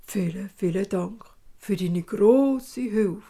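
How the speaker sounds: put-on slow, odd old-dwarf thanks; old dwarf thanking the father. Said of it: "bedankt sich der alte Zwerg".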